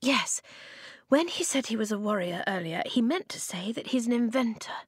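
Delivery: high, lightly roughened voice; rough and gravelly. A narrator's reading. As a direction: push the words out through a rough throat. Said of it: "Her voice was rough and gravelly".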